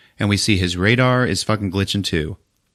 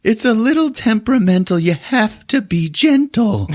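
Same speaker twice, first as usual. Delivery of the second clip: mock mechanic. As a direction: coax it gently, hammed up. Mechanic voiced.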